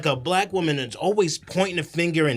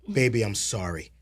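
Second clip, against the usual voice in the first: a soft mock apology to her son; bad acting; 7 semitones lower, 3 dB quieter than usual. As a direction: say it gently, lightly acted. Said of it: "how about a little".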